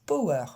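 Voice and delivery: power split into po and wer, French way; imitating a French learner's power; French-style power. Teacher mimics the typical French mistake on power. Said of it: "une majorité des Français, ils disent".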